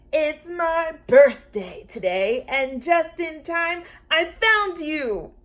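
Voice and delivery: put-on high, slow, loud girl voice; thrilled child announcing her find; excited little girl. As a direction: sound like an eager child. Lulu voiced in story.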